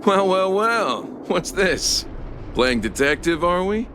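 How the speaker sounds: mocking taunt. Suspect to child playing detective, mocking and condescending. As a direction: toy with the little detective.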